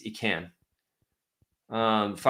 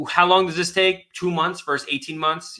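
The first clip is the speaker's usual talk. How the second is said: higher, louder and slow, fed up with the question; exasperated mock question; 5 semitones higher, 3 dB louder than usual. Lawyer mocking clients' endless timeline question, exasperated. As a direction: drag it out like you're sick of hearing it. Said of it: "exasperated at timeline questions".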